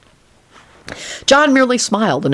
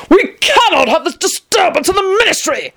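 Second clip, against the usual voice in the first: higher, stern official voice; stern officer; 13 semitones higher than usual. A narrator's reading. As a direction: lay down the rule firmly. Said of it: "informed John sternly".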